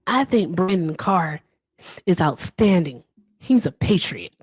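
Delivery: Donald Trump. Acted. Trump praising Brandon Carr, light impression. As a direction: praise in short, separated phrases. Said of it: "That is my Trump impression".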